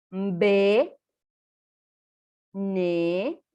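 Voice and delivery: GE to ÑE one at a time, long and nasal; nasal consonants. Shown as a demonstration. Teacher models for repetition, each consonant drawn out through the nose. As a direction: hold each of GE, ME, MBE through the nose, pause between. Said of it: "por la nariz".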